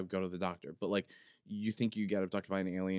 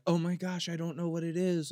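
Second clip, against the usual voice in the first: mock surprise; 9 semitones higher, 3 dB louder than usual. Imagined feigning surprise at doctor.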